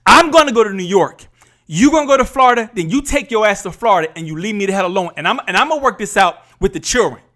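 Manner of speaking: firm, fast retelling of a standoff; retold fed-up ultimatum. Husband recalls telling spouse he is done, fed up. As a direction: lay down the law in a mild retold quarrel.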